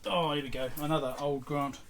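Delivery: ordinary talk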